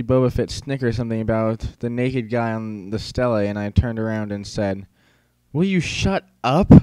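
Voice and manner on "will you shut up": sudden, higher outburst; louder than meant. Acted. Boy snapping at snickering classmate, higher and louder. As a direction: blurt it out louder than intended. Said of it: "It came out louder than I meant it to".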